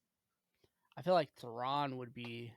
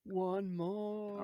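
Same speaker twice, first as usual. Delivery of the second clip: breathy dramatic whisper, higher; 6 semitones higher than usual. Pretend. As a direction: whisper it like a secret. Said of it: "What was that, Drew?".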